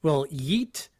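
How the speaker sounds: amused mock announcement; laughing delivery. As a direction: crack up while pitching the line. Joking suggestion for the copy.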